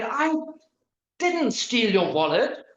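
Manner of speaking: "didn't" stressed with a rise, "I" pitched high. Shown as a demonstration. Lecturer showing stress on "didn't" for students. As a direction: lean on "didn't". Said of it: "In the next one".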